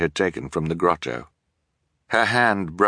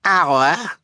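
fearful; 12 semitones higher, 5 dB louder than usual. Acted. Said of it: "Sonny said fearfully".

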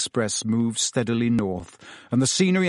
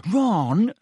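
higher, sharp warning; 8 semitones higher than usual. A narrator's reading. Hermione to Ron, sharply warning him. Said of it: "said Hermione sharply".

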